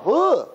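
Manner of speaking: loudish, high mock groan; imitated high exclamation; high-pitched ugh. Imitated reaction around pitying giver.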